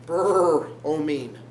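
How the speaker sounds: rolled, drawn-out "brrr" starting bromine; bromine with brr. Shown as a demonstration. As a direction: shiver out the start of bromine, then finish it.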